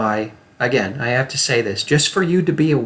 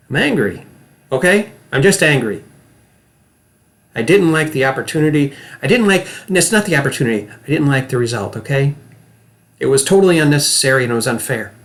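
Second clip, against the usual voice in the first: demo of anger; faster than usual. Shown as a demonstration. Acting coach shows students a display of anger. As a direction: complain hard about an unfair result. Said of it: "I want you to watch me".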